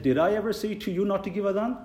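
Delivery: high pointed question; exasperated question. Retold or imitated. Imam questioning the muazzin, high and exasperated. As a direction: insist he was never stopped. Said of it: "I said".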